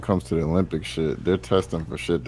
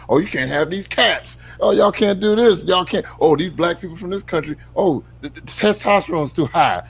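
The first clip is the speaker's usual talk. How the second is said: mock officials; 8 semitones higher than usual. Mocking Olympic officials' rules.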